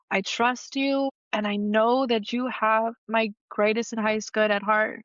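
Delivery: real emotion rising in a prayer; pleading trust, feelings starting to well up; getting emotional. Real, not acted. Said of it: "I'm sorry if I'm getting emotional".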